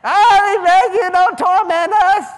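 loud, high wailing plea; begging demons. Acted. Preacher voicing demons begging Jesus, loud high wail.

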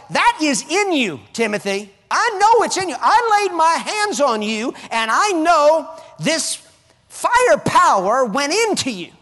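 loud, high preaching as Paul to Timothy; preaching at full force. Acted. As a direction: proclaim it like Paul urging Timothy.

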